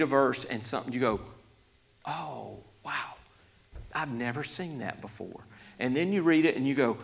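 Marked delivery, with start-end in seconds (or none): 2.0-5.4 softly awed, acted discovery; quiet amazement. Preacher voices a reader finding something new, quietly amazed. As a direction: breathe out a hushed, imagined wonder.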